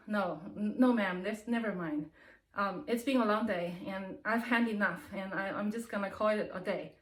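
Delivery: a touch of weary defeat; dejected, disappointed. Retold or imitated. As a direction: sigh it out like a tired worker who's had enough. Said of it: "very disappointed and sad".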